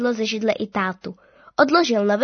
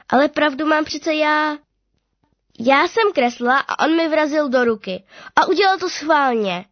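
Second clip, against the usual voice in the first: indignant insistence; 5 semitones higher, 3 dB louder than usual. Acted. Girl insisting to her father.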